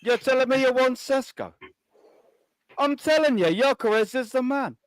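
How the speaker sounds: lightly voiced wheeler-dealer salesman; a hint of a pushy car dealer; Terry Tibbs. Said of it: "my dodgy impersonation".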